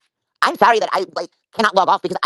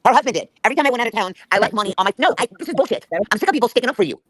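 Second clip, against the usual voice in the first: higher-pitched, fed-up protest; indignant outburst; 4 semitones higher than usual. Real, not acted. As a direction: push back, real and aggrieved. Heated quarrel about a former friend.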